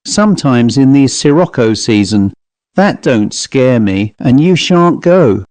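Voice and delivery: lightly voiced Cockney manservant, indifferent to threat; mildly stubborn Cockney servant; unafraid Cockney servant.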